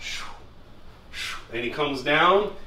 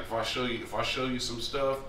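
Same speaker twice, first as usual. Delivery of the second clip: Harry's raspy voice; 4 semitones lower, 9 dB quieter than usual. Retold or imitated. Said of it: "he's always had that raspy ass voice".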